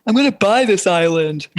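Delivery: put-on bratty rich teen voice; a hint of a bragging teenager; mocking teen impression. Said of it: "my impression of a teenager".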